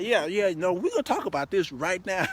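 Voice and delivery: insist, don't let her off the hook; firm insistence. Retold or imitated. Insisting back at a woman.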